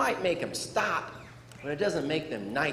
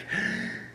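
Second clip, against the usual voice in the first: gasp; 6 dB quieter than usual. Retold or imitated. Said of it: "And I was like".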